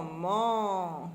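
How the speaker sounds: man- held long on the nasal vowel; drawn-out nasal "an". Shown as a demonstration. Teacher isolating the sound in manteau, man- drawn out. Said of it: "j'entends en".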